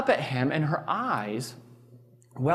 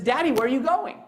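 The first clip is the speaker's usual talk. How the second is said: put-on 1 little girl voice; 8 semitones higher than usual. Child voice quoted in story.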